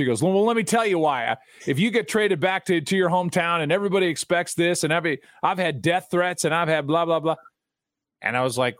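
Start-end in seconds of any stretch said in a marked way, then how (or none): 0.2-7.4 higher, hurried exasperated venting; mock a star unloading his frustration; imitating exasperated rant. Ballplayer explaining to the announcer why he stopped smiling, exasperated. Griffey venting about hometown pressure.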